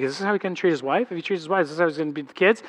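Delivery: soft, worried musing; wife fretting over husband and kids; anxious inner voice. Retold or imitated. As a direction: think it quietly, fretting. Wife's anxious inner thoughts.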